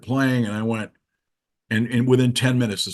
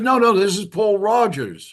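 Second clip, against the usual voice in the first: put-on high, loud British accent; insistent British caller, pitched well up; Paul Rogers; 10 semitones higher, 5 dB louder than usual. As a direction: imitate a Brit correcting a mistake. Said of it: "with a British accent".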